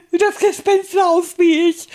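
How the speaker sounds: high giddy giggle; giggling. Acted. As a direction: laugh at your own joke. Puppet giggles at his costume.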